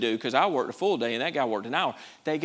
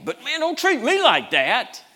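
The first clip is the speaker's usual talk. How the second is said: self-centered whine; 11 semitones higher, 4 dB louder than usual. Retold or imitated. Voicing selfish flesh.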